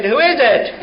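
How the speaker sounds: put-on high, startled-sounding old lady question. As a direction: ask it high, echoing the parrot. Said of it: "and she said".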